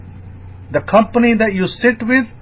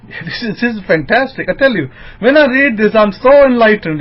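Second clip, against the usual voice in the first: rising, louder burst of joy; thrilled by the scripture; excited; 6 semitones higher, 3 dB louder than usual. Real, not acted. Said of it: "I can't describe my elation".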